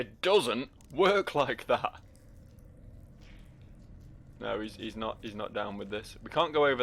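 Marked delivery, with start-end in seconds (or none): 0.0-1.9 slow, drawn-out copy of the line; mimicking game voice. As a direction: parrot the character back, slowly. Echoing the game character's line.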